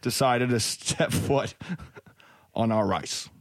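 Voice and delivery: put-on lightly held Boston accent, swaggering; a Boston cop boasting about his beer and the Bruins; mild Boston bar-talk accent. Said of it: "I just liked it for the Boston accent".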